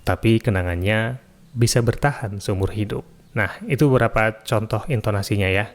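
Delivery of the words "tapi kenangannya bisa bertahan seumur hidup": another intonation of the quote. Shown as a demonstration. Recording tutor demos a third quote intonation, gentler. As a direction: read the quote gently, letting it rise before the end. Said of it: "pakai intonasi yang lain juga bisa".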